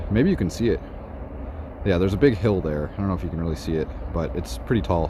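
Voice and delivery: ordinary talk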